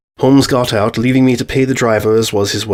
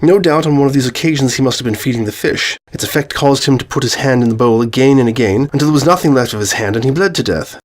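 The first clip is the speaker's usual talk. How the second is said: Holmes expounding his deduction, livelier and higher; confident detective's explanation; 3 semitones higher than usual. Acted. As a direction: lay out the solution with emphatic assurance. Holmes lectures on the solution.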